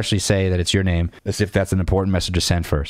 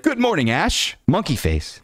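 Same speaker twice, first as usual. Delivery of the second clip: much higher, sing-song mock of her greeting; mock girly voice; 10 semitones higher, slower than usual. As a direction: parody the girl's chirpy text. Mocking her text message.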